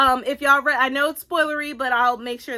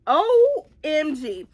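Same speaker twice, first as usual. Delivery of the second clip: amazed reaction; 4 semitones higher, 4 dB louder, much slower than usual. Retold or imitated. Retelling her reaction on reading it.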